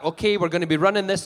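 lifted, lively Scottish delivery; Scottish accent. Shown as a demonstration. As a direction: address the audience as a Scot. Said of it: "I'm talking to the audience like that".

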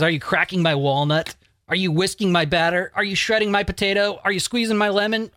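rising giddy list read; mounting glee. Retold or imitated. Reading a list, climbing excitement.

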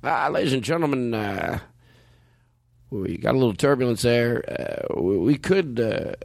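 lightly voiced airline pilot announcement; a hint of a laid-back captain on the intercom. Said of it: "I'll do the pilot voice".

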